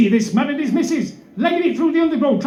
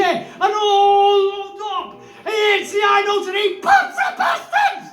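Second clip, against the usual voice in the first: mock outraged shout; 5 semitones higher, slower than usual. Climax yelled.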